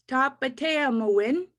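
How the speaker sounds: Tapateamoin drawn out very slowly; slow Cree word. Shown as a demonstration. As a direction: stretch Tapateamoin so they can follow. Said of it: "Let's try that again".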